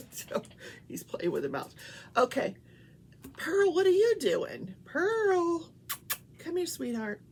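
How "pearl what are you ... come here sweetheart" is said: high, loud call to the pet. Real, not acted. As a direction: call her off the table. Calling the other pet.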